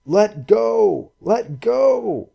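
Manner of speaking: urgent shout. Acted. Shouting to girl in surf.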